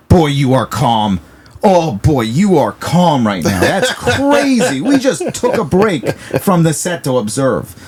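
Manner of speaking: high, slow, laughing self-talk; half-laughing amazement, slowed down; amused inner voice. Retold or imitated. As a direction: marvel at yourself mid-set, chuckling. Inner voice marveling at own calm.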